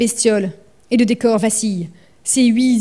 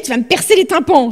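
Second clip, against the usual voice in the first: barking; 4 semitones higher, 4 dB louder than usual. Acted.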